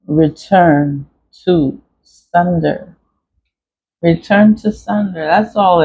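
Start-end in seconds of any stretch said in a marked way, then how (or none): 0.1-3.0 very slow, word by word, as if carving; slow carving demo. Shown as a demonstration. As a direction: draw each word out like cutting it into wax. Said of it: "I just carved in it".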